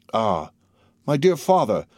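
delighted cry, pitch lifting on "dear father"; understated charmed exclamation. A narrator's reading. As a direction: exclaim with mild, pleased delight. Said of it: "evidently charmed with the idea".

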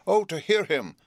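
very high screamed cry; cried with a scream. A narrator's reading. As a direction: scream it while clapping. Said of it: "cried my sister with ... a scream".

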